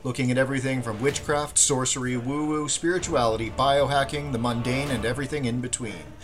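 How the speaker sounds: smooth announcer read over music; podcast intro read. Acted. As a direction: read it like a show opener.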